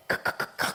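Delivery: stuttered throaty crying noises; imitated choked sobs. Preacher showing how mother started crying, imitated choking sobs. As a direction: mimic tears about to burst. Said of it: "하더니 막 터져가고 막 우는".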